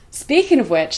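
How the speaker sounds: breathless, gasping for air; out of breath. Real, not acted. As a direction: talk while still panting. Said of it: "let me catch my breath".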